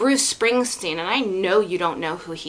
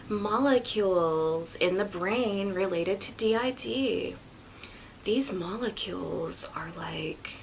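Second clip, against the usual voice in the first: imitating Brandy; 4 dB quieter than usual. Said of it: "I'm gonna try to imitate Brandy".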